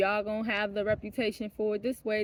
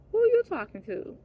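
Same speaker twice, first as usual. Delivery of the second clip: retold outrage; 10 semitones higher, 5 dB louder than usual. Mock challenge to him.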